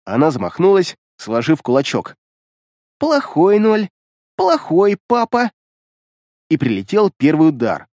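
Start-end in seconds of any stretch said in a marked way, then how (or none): 3.0-5.5 put-on high, slow childish scolding; sing-song naughty-daddy reproach. A narrator's reading. Creepy girl scolds Mark as bad daddy, high and slow.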